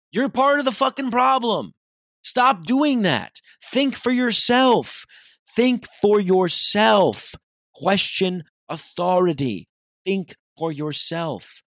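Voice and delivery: loud, high, slow hammered words; furious rant. Real, not acted. Scolding people who just go along, loud and slow. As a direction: lay into them word by word.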